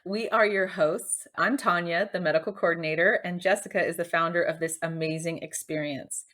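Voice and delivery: upbeat show intro read; podcast intro. Acted. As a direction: welcome the listeners in, announcer style.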